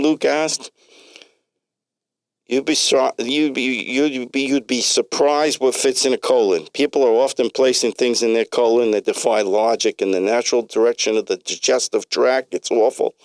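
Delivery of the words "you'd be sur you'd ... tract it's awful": put-on heavy New York accent; doctor with a heavy New York accent. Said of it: "in a heavy New York accent".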